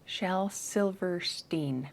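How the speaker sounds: slow, soft Silverstein ending in STEEN; careful name practice. Real, not acted. Trying to get an author's name right, careful and slow. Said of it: "Why can't I say that?".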